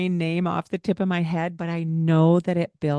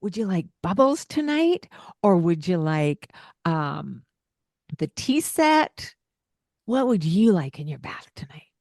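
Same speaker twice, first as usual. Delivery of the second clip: tone drawn up. Shown as a demonstration. Parent offering bath choices to child in a lifted, cheerful tone. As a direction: lift your pitch and sound cheerful. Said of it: "draw that tone up".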